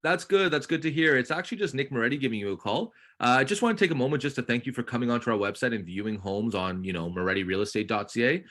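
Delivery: upbeat sales call opener, bright hello; peppy realtor pitch. Shown as a demonstration. Coach demoing a cold call to a new agent, peppy. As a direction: sell it like a friendly realtor calling a lead. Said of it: "So if you wanna role play".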